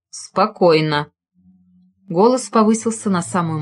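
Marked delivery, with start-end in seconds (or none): 0.1-1.1 calm command. A narrator's reading. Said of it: "Голос в трубке спокойно проговорил".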